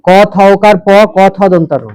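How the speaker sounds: measured dictation of each letter; spelling out. Shown as a demonstration. Teacher dictating a spelling to the class, spelled out.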